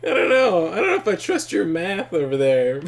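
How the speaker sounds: high laughing outburst. Real, not acted. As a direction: laugh it out loudly. Laughing at chat's joke.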